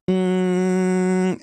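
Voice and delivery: buzzing nasal hum; nasal hum demo. Shown as a demonstration. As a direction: hum through the nose. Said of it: "you're going".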